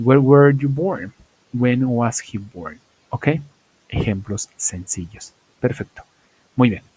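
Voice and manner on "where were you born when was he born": slow, loud, carefully spaced English questions; slow model questions. Shown as a demonstration. Teacher modeling question word order for students, slow and loud. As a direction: lean on "were" and "When", slow and loud. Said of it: "Y digo".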